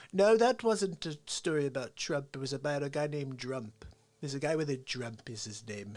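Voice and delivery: boastful, self-assured rambling; Donald Trump. Acted. Comic as Trump claiming he beats Einstein, boastful impression. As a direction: brag as if stating plain fact. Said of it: "I like to do a Trump impression".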